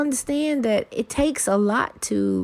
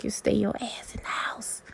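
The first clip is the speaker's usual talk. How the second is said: mock order; 7 dB quieter than usual. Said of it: "they like".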